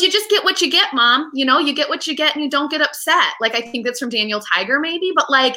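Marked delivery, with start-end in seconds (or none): 0.0-3.3 lightly voiced little daughter, pitched higher; slightly higher child's voice, matter-of-fact; a hint of a small child reciting a rule; daughter quote. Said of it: "she goes".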